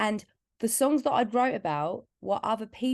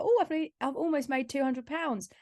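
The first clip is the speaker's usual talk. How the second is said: mock proud joke; 5 semitones higher than usual. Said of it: "I made a joke".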